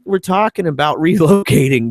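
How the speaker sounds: high, incredulous retold reaction; mock disbelief with a laugh breaking through. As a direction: exclaim it high, amused and incredulous. Father retells his disbelief, laughing.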